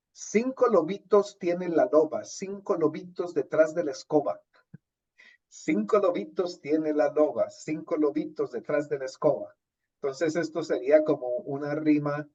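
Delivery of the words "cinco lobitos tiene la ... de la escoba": poem recital. Shown as a demonstration.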